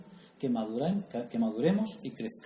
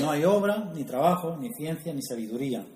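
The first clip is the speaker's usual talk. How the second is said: scripture reading. Real, not acted. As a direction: read the verse out. (lectura del versículo)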